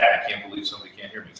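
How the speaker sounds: ordinary talk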